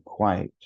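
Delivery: "quite" in one beat, no "yet" in it; one-syllable QUITE. Shown as a demonstration. Teacher swaps the confusable words round, one-syllable "quite". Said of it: "the only thing that's different".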